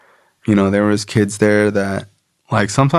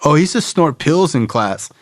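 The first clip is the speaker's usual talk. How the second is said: higher gossipy chatter, mocking the kids; gossiping kids; 7 semitones higher than usual. Kids gossiping to the teacher in a mocking high voice. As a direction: tattle like nosy classmates. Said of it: "people were like".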